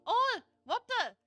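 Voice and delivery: sudden high yell of alarm; shocked shout. Real, not acted. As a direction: yelp it out, caught off guard. Caught off guard on stream.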